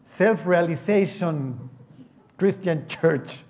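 drawn-out, very slow English name; slow mock reading. Preacher reading the odd church name aloud, very slowly. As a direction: spell it out slowly like a sign.

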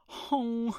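short high-pitched hoot; high "ho" sound. Real, not acted. Podcaster breaking up his own intro, high hoot. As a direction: let out a high "ho". Wordless high interjection between remarks.

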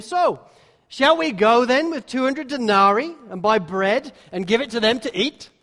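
mock sarcastic. Irritated disciples mocking Jesus' plan, mildly sarcastic. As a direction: needle the teacher with a mild mock-sarcastic question. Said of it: "response of sarcasm and skepticism".

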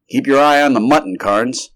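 urgent heads-up; cautioning. A narrator's reading. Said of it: "cautioned the doctor".

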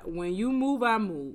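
loud, high mock-divine challenge; playful proclamation. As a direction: boom it out in a joking imitation of God. Voicing God's stance, joking.

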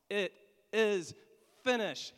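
loud, high cry of triumph; Jesus crying out in triumph from the cross; triumphant shout. Acted. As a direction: shout it out as a victory. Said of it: "he shouts that out".

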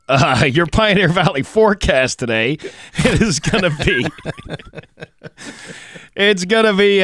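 weather read breaking into laughter; giggling through the forecast; laughing. Real, not acted.

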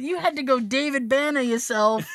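words spilling out through real laughter; cracking up mid-sentence; laughing. Real, not acted. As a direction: laugh your way through the punchline. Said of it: "And I started laughing so hard".

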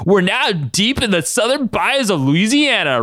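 high, slow, hammed-up Southern drawl; exaggerated Louisiana southern twang, drawn out; horrible southern accent. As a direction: lay on a terrible southern accent. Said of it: "with a horrible southern accent".

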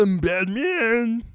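slow Batman voice; Kermit the Frog voice. Acted. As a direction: drag out the hero line. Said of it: "I'm the same as Kermit the Frog voice".

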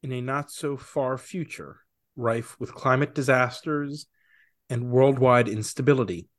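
dramatic movie trailer narration; horror trailer voice. Acted. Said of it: "bust out those golden pipes".

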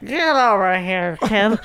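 put-on slow, lightly slurred drunk mom; hint of a drunk mom impression. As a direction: draw it out like a tipsy mother. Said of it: "doing impressions of being drunk".

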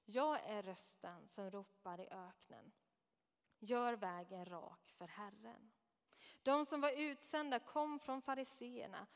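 measured, solemn Bible reading; solemn reading of John's gospel to the congregation; scripture reading. Acted. Reads scripture aloud.

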